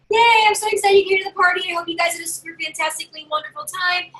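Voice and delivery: high, excited party welcome; bubbly high-pitched cheer; gushing hostess. Acted. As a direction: gush brightly at your guests, starting loud. Acting out thanking excited guests.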